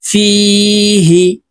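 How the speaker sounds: "ফিহি" with a long "ফি" and a quick short "হি"; quick short harkat. Shown as a demonstration. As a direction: hold "ফি", then cut "হি" short. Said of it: "নিচের দিকে ধাবিত করে তাড়াতাড়ি করে উচ্চারণ করব". ("ফিহি": ফি টেনে, হি তাড়াতাড়ি)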